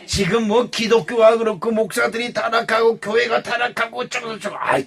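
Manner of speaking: ordinary delivery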